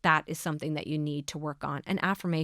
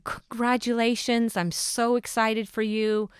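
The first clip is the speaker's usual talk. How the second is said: cheerful congratulations; 5 semitones higher than usual. Retold or imitated. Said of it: "hear people saying".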